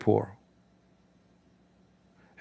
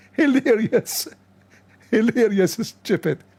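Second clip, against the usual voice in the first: mocking scorn; 8 semitones higher, slower than usual. Real, not acted. Mocking while laughing.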